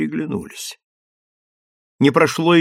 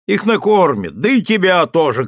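mild shout; 5 semitones higher than usual. Acted. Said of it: "крикнул ей сержант".

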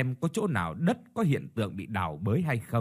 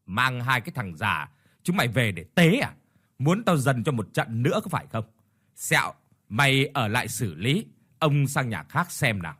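shouting. Acted. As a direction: yell at the old man with scorn. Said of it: "Ông quát".

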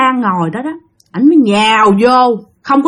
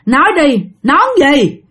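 higher interrogating voice; lightly voiced shaman; stern questioning; 3 semitones higher than usual. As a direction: press the spirit to talk. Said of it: "Thì ổng kêu".

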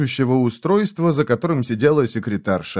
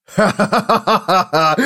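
high scornful ha-ha-ha laugh; mocking laugh; 7 semitones higher, slower than usual. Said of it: "Фойл рассмеялся".

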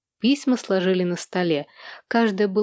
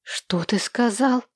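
stunned; 3 semitones higher, slower than usual. Acted. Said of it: "обомлела Хенни".

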